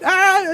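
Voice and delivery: a drawn-out "aah" mimicking a worked-up driver; imitated yelling. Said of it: "yelling and screaming at".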